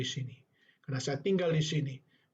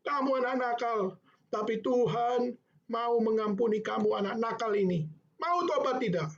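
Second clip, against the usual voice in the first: put-on a teacher pressing a child to repent, pitched well up; scolding teacher; 9 semitones higher than usual. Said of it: "Lalu dia mengatakan".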